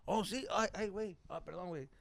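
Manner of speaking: high, lightly mocked dad voice; imitating his dad. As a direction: act out a father stumbling through an apology. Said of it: "He's like".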